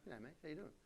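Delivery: soft mumble through a barely open mouth; under-the-breath Australian hello; mumbled Aussie greeting. Acted. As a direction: run G'day, mate together quietly, lips nearly shut. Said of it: "not supposed to open your mouth".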